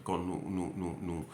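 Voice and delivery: normal talking voice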